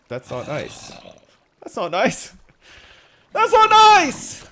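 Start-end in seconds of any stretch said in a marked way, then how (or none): 1.6-2.3 building impersonation. Shown as a demonstration. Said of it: "the "that's not nice" impersonation". 3.3-4.5 high, loud, slow squealing mock of a scolding; mocking impersonation. Streamer mimics a viewer's scolding, shrill mock. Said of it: "the "that's not nice" impersonation".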